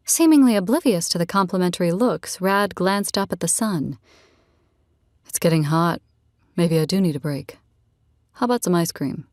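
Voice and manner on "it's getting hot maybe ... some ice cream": lightly voiced easygoing man; a hint of a relaxed male character; easygoing Rad. Man telling a new friend about his family, lightly voiced, easygoing.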